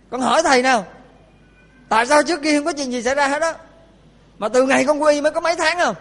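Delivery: aggrieved parent's mock protest; indignant questioning. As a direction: demand answers from the abbot. Parents confronting the abbot over deaths.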